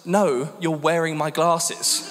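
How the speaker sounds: slow words through laughter; laughing reply. Retold or imitated. Wife laughing at husband's wrong glasses, slow and giggling. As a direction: say it while cracking up. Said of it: "she just burst out laughing".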